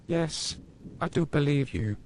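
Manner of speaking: put-on high child voice; little boy. A narrator's reading. Max reassuring his mother, high and childlike. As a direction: answer sweetly like a kid.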